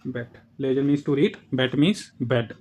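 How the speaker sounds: slow, careful teacher reading of बेट and लेजन; बेट with a short e and लेजन with a long e, both slow; slow vocabulary demo. Shown as a demonstration. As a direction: spell out each German word slowly for learners. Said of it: "short वाले का जैसे बेट".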